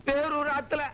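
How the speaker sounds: hammed-up weeping to win sympathy; fake sobbing. Young man fakes tears before the girl's parents, mock sobbing. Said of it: "அழாதப்பா".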